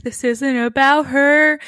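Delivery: slow, drawn-out echo; imitating the bartender's slow echo; mock bartender echo. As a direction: echo her line slowly like a backup singer. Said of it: "echoing her".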